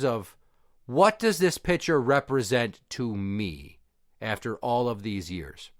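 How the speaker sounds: slow, deliberate confronting question; pointed questioning. Retold or imitated. Son holds up the hated photo to dad, slow and pointed. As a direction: draw the words out, pausing between phrases.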